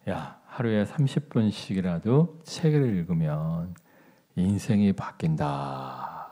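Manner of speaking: slow, stretched-out motherly advice; mother's nagging. Retold or imitated. Mother urges her child to read, slow earnest nagging. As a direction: imitate a mother solemnly drawing out her lesson. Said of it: "근데 우리 어머니가".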